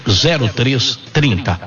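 very slow, drawn-out digits; slow repeat. Shown as a demonstration. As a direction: stretch each number out for someone writing it down. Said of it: "Vamos repetir devagarzinho".

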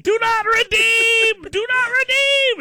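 high, loud, drawn-out mock scream; hammed-up furious phone yell; imitated screaming. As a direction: scream it slowly like an irate caller. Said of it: "screaming at you".

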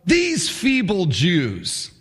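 drawn-out contemptuous sneer; sneering taunt. Acted. Sanballat taunting the Jews in front of his army, slow sneer. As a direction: savour the insult slowly. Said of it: "He says".

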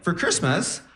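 lightly voiced grade-school kid reporting; himself as schoolboy. Poor kid's turn in class, lightly acted schoolboy voice. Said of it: "and I was like".

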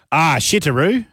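Japanese phrase, still Australian, lifted at the end; Australian accent. Shown as a demonstration. Host refusing a Japanese accent, keeping the Australian accent. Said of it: "can you lose less of the Australian accent".

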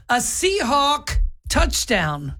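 imitating a sportscaster, slow; mock announcer. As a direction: Seahawk touchdown, drawn out in a mock announcer voice. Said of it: "It's not Seahawk".

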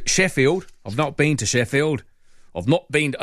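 put-on lightly slipped-into British accent. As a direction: drift into a hint of British accent. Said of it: "I've suddenly slipped into a British accent".

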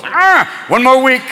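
slow, frail mock rasp; a hint of a dying old pope; weak dying pope. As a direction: groan it out like a man on his deathbed. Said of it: "if the Pope goes".

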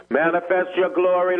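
ordinary talk

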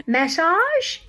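massage? in a drawled Southern accent, rising. Shown as a demonstration. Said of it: "I can't even say massage in a Southern accent".

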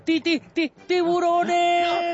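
high stammer bursting into a long cry; stutter, then stretch out the alarm; hammed-up stammering captain's yell; stuttering shout. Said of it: "el capitán grita".

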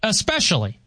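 "Especially" with a plain s, ess-PESH-uh-lee; pronunciation on request. Shown as a demonstration. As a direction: say "Especially" with no k sound. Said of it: "Say especially".

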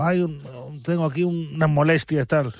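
hesitant mock moan; mock injury excuse. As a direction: feign a little niggle, half-heartedly. Voices a player's feigned injury excuse.

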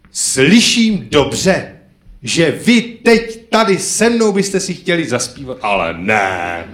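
slow, put-on wonder at the crowd; mock surprise. Comedian feigning the crowd asked him to sing, slow mock surprise. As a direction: pretend the audience begged to sing. Mock hearing audience request.

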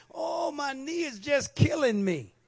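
hammed-up aches-and-pains lament; imitated complaint. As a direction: imitate a church mother groaning about her knee. Acts out church mother's complaint.

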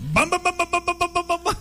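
high chanted bam bam cry; battle cry. Retold or imitated. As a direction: shout it like a ring announcer. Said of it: "ponle de que".

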